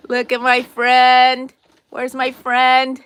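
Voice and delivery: slow build to a high excited shout. Acted. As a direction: reveal the friend with rising delight. Showing plush friend, building.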